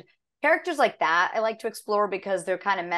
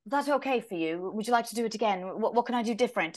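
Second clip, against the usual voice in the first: considerate co-star; 2 semitones higher, 4 dB quieter than usual. Retold or imitated. Co-star asking if that take is okay, considerate. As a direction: check in gently, as the imitated actor. Retelling co-star's considerate question.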